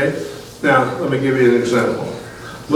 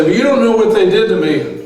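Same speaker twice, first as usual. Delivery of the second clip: high, louder whiny protest with a laugh; mock aggrieved listener; 8 semitones higher, 4 dB louder than usual. Preacher mimicking a listener who won't forgive, high mock whine. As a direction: play the hurt churchgoer, hammed up.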